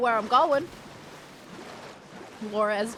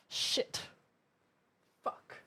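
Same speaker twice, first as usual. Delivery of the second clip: curses muttered much softer, under the breath; 8 dB quieter than usual. Real, not acted. Gamer mourning her first death, muttering curses. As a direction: swear quietly to yourself after dying. Quiet cursing after death.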